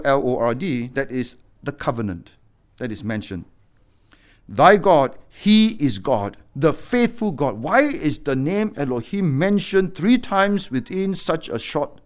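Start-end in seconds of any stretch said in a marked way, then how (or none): 4.5-7.6 slow, each God weighed and stressed; stressed reading. Shown as a demonstration. Preacher stressing God to his congregation, slow and weighty. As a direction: lean hard on every God, slowly. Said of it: "emphasized twice".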